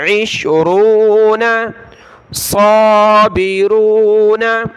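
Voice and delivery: साबिरूना with a full, heavy sad, slow. Shown as a demonstration. Teacher models the heavy sad. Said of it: "सौद को मोटा पढ़ना है।".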